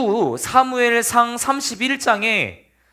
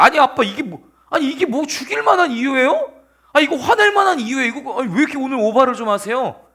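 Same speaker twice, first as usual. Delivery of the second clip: higher-pitched acted pleading; exasperated protest; 4 semitones higher than usual. Son asking father why he overreacts, exasperated. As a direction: argue back like an indignant son.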